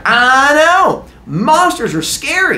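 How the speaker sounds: high, hammed-up yell; yelling over screams. Man to screaming villagers, high loud yell. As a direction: shout agreement over a screaming crowd.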